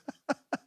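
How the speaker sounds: brief soft chuckle; short laugh. Real, not acted. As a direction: chuckle at your own remark. Laughs at his own joke.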